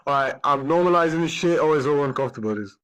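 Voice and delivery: choked up for real; tearful. Real, not acted. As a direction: push the words out through tears. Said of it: "me crying".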